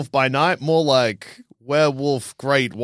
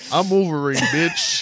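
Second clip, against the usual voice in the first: higher pitched cocky Wolverine, the last word squeaks up; cocky tough-guy catchphrase voice; mock Wolverine voice; 4 semitones higher, slower than usual.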